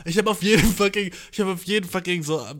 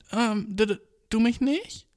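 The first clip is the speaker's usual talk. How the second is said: high mock whine; 6 semitones higher, slower than usual. Repeating coworker's line.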